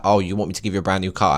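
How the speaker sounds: lightly voiced God, fast and teasing; mock Jesus, teasing. Vlogger voicing Jesus to the viewers, mildly teasing. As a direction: tease the asker as a sceptical God. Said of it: "Jesus is like".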